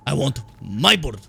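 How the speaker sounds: a deliberately bad Russian accent; fake Russian accent. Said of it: "horrible dog shit fake Russian accent".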